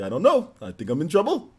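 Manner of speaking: lightly voiced cartoon bear; a hint of cartoon bear with a laugh; half-done cartoon bear reply; Yogi Bear. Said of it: "just talk like that".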